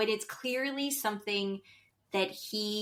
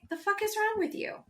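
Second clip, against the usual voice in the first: much higher, mock incredulous snap; mock incredulous repeat; 11 semitones higher than usual. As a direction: replay his line higher, mocking him. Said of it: "and he's like".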